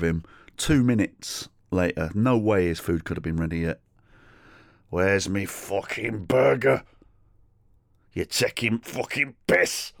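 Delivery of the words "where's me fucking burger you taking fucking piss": put-on impatient drunk. Drunk man demands his burger.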